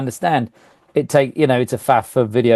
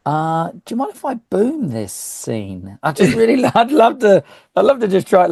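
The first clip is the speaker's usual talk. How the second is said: mock-timid request rising into higher eagerness; eager runner; 5 semitones higher than usual. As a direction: imitate a runner, hesitant start, then keen and high. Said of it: "You imagine a runner coming up to you going".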